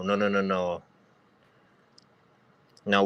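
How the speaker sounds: ordinary talk, nothing marked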